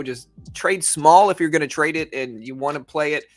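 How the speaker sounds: usual speaking voice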